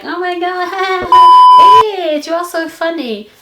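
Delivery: high, giggly mock friend; laughing friend. Friend laughing at her joke, high and giggly. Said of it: "she would be like".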